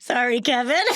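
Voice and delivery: high, giggly apology; laughing apology. Real, not acted. Co-host says sorry to Kevin after the mic mishap, laughing.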